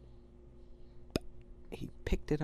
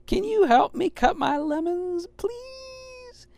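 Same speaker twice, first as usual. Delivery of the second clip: high, loud pleading call, please pitched up; shouted request; 7 dB louder, slower than usual. Acted. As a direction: shout the request to Mom far away. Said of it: "he shouted".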